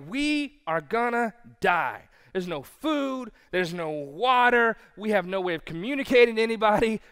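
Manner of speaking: mildly hammed-up doom; freaking out. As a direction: play a castaway losing it. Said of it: "he's freaking out".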